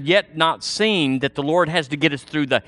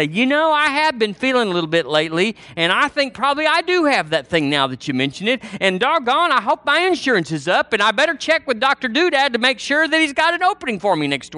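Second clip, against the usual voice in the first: higher, fretting mock churchgoer; mock worrier; 8 semitones higher than usual. Churchgoer fretting over insurance and a doctor's opening, mock worrier. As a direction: mimic someone talking themselves into sickness. Mimics person talking themselves into sickness.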